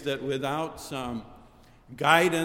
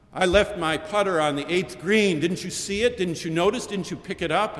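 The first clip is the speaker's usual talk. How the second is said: louder, higher, indignant golfer demanding answers; angry shout; 4 semitones higher, 4 dB louder than usual. Retold or imitated. Golfer shouting at the bishop's foursome in angry complaint. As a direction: bark the complaint like a golfer missing his putter. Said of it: "One stood and shouted".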